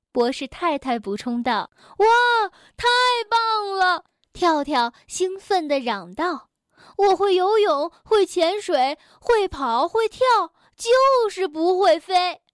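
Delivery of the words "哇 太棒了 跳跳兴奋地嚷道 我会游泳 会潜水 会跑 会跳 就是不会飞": high, loud eager bragging; excited exclaim. A narrator's reading. Frog excitedly listing what he can do. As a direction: burst out with excitement, slowing at the end.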